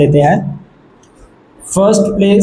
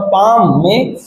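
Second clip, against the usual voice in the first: slow stretched word; much slower than usual. Shown as a demonstration. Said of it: "हमारा word है पाम".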